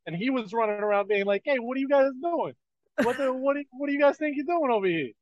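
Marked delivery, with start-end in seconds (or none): 1.4-5.1 quick, higher, lightly put-on Jersey accent; Mandred faking a Jersey swagger; mock Jersey accent. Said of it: "That's Jersey".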